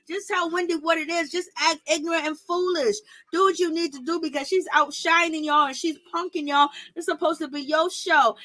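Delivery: high, urgent egging Robin on to fight; hyped-up coaching. Pretend. Talking to Robin on screen, she urges her to fight, high and hyped. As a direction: pump her up like a corner coach. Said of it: "I'm like".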